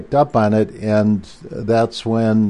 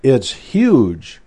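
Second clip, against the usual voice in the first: imitating an excited shout, pitched higher; excited secretary; 3 semitones higher, slower than usual. Secretary at Goddard blurting out big news over the phone, mock excited. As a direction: retell her breathless news with a touch of excitement. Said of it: "And she goes".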